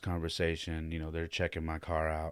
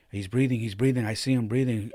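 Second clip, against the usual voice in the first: urgent call; 5 semitones higher, 7 dB louder than usual. Retold or imitated. Urgently calling to the 911 dispatcher.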